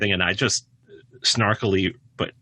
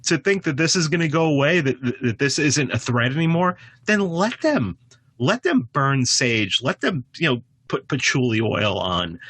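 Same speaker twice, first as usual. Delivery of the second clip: exasperated outburst; 7 semitones higher than usual. Retold or imitated. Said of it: "It's like".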